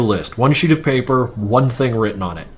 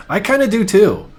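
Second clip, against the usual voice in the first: laughing; 9 semitones higher than usual. Real, not acted. Laughing while agreeing.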